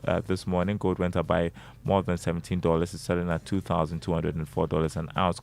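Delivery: steady market report read; reading stock prices. Acted. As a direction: read the prices like a news bulletin.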